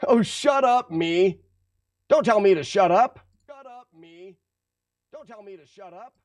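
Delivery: high squabbling self-argument; bickering voices in one. Acted. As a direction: squabble with yourself, two voices. Bickering with himself.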